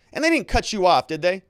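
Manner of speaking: re-enacted courtroom challenge; challenging lawyer. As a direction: challenge the witness like a cross-examiner. Acting out lawyer challenging witness.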